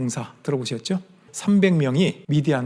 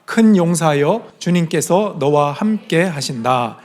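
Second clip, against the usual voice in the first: slow, loud congregational reading with the preacher; slow group reading; 4 dB louder, slower than usual. Shown as a demonstration. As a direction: read it out together, slowly and firmly. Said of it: "우리 따옴표만 같이 읽겠습니다".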